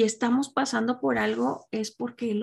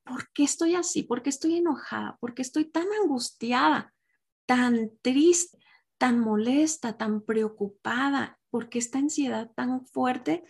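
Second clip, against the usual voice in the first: prayer voice. Acted. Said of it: "preguntarnos en oración y decir".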